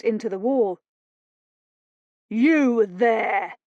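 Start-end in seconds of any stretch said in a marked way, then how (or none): 2.3-3.6 loud commanding call; husband calling out to the captors. Acted. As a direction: hail them across the room. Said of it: "voice called out".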